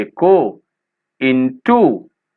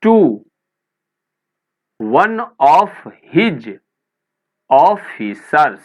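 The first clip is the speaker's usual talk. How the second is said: officers said slowly, each syllable drawn out for the class; slow spelling-out pace; 3 semitones higher, much slower than usual. Shown as a demonstration. Teacher slowly modelling officers for Hindi-speaking pupils. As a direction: stretch officers out slowly so pupils can follow.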